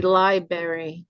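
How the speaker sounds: "library" said slowly without the first r; a slow Jersey "library" with no first r. Shown as a demonstration. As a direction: drop the first r: "library" as lie-berry.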